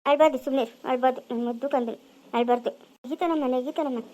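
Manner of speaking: tender, hushed coaxing; softened, loving reassurance; soothing a baby. Acted. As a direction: gently settle a crying child.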